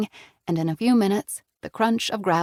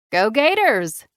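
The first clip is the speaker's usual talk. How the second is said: smiling; 3 semitones higher, 6 dB louder, slower than usual. A narrator's reading. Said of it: "Jessica said with a smile".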